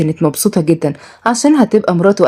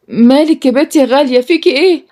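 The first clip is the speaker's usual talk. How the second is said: raised-pitch, worried questioning; alarmed concern; 7 semitones higher than usual. Acted. Older woman to the girl bursting in, alarmed. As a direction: ask urgently, pitch climbing.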